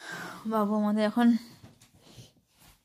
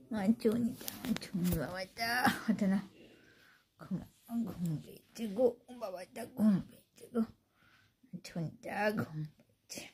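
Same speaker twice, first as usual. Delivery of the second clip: pillow talk; 3 semitones lower, 3 dB quieter than usual. Real, not acted. Tender cooing to sleeping pet.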